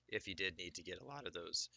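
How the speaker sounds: cracked voice, real slip; voice cracking. Real, not acted. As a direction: voice cracking mid-sentence. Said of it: "sorry about my voice cracking".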